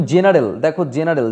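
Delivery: জেনারেল starting on a j sound; soft G. Shown as a demonstration. Teacher showing G before E, demonstrating জেনারেল with a soft জ. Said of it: "জি ই বসে তাই কিন্তু জ হচ্ছে".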